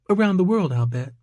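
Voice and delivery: high-pitched Georgia waitress; playful question in a high Georgia accent. A narrator's reading. Waitress answering a curious customer, coy Georgia accent. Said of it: "an accent that was distinctly from Georgia".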